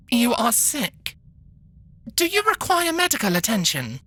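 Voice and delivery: measured posh robot nurse. Acted. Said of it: "the robot asked".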